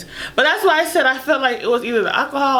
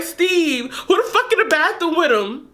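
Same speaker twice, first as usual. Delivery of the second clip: angry question; 5 semitones higher than usual. Retold or imitated. Demanding friend explain.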